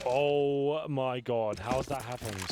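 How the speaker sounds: drawn-out shocked exclamation; a slow, loud shocked oh my God; stunned. Real, not acted. Stunned reaction to a play.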